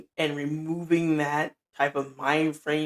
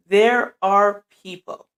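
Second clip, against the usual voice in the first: louder, slower, every word of there are people hit; repeated for the back; 3 semitones higher, 7 dB louder, slower than usual. Shown as a demonstration. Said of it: "for the people in the back".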